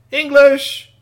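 high, loud exclaim; triumphant high shout; excited reveal. A narrator's reading. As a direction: announce it like a big surprise. Surprise reveal of display.

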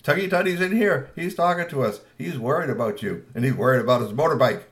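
laughing dad. Acted. Dad laughing at his son about the bike, amused. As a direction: tease him through a chuckle. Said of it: "laughed at him and said".

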